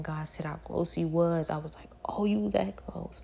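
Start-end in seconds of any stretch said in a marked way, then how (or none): 2.0-3.2 higher, drawn-out realization; a retold, awed "oh"; astonished. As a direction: slowly take in the shock. Astonished reply to God's warning.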